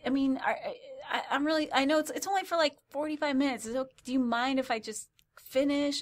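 high, stammering mock apology; flustered apology. Apologising to the neighbour, retold.

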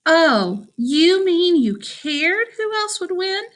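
high, slow, biting comeback; sarcastic retort. Acted. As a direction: throw it back with scorn. Priya snaps back at Sasha.

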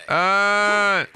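one high, held fake wail; mock cry. Streamer claims to be offended, then gives a fake cry. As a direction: let out a badly faked cry on one note. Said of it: "I'm going to fucking cry right now".

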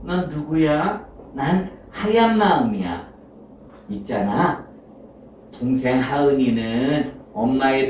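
lightly voiced kindly conscience; gentle good heart, reasoning. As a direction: patiently persuade a child, phrase by phrase. (차분히 타이르는 하얀 마음 목소리)

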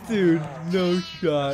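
slow, stretched-out disbelief; disbelieving. Real, not acted. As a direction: draw it out slowly, incredulous. Disbelief after the chase.

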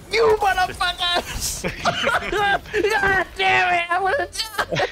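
angry yell at teammates; frustrated shout. Real, not acted. Just got ambushed.

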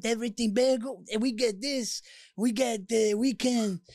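thick-tongued mocking voice; swollen tongue. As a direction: talk like your tongue is too big. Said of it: "my tongue is too big for my mouth".

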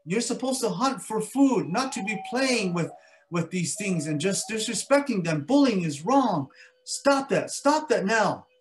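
high, loud little mosquito scolding; tiny mosquito scolding the mountain lion. Acted. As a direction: tell off the bully in a high loud voice. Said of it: "And he said to the mountain lion".

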